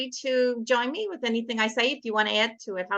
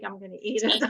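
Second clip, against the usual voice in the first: laughing; faster than usual. Real, not acted. Jokes about steak, laughing.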